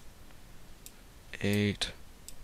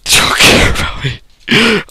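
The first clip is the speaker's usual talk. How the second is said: much higher, loud whiny complaint; mock hurt; 10 semitones higher, 12 dB louder than usual. Vlogger pretending viewers don't care, in a high whine. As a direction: whine it like a wounded child.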